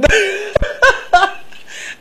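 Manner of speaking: high-pitched real laugh. Real, not acted. Host laughs at caller's joke. (tertawa geli)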